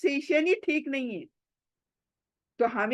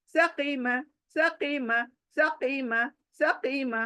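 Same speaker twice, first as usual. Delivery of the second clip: fast drill; much slower than usual. Shown as a demonstration. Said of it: "fast हो गई अब".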